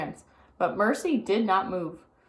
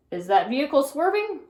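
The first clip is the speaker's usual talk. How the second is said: officer asks himself; 6 semitones higher, 4 dB louder than usual. A narrator's reading. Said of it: "asked himself".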